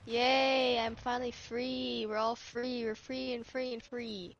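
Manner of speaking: mock joy. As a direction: act giddy at being set free. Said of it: "or would you be like".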